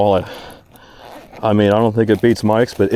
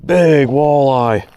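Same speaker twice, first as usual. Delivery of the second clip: long, drawn-out exclamation of amazement; real excited astonishment; 2 semitones higher, much slower than usual. Real, not acted. Angler landing the biggest walleye of their life, stunned excitement. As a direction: call it out slowly, stunned by the catch.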